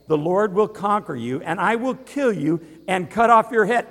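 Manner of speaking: David shouting back at Goliath; shouting defiance. Acted. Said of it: "David shouted in reply".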